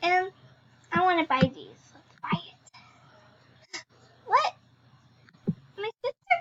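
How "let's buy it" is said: slow unvoiced whisper. Real, not acted. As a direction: hush it slowly to yourself.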